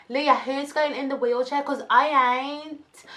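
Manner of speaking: hammed-up refusal of the wheelchair; dramatic refusal. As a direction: ham up the refusal, drawn out.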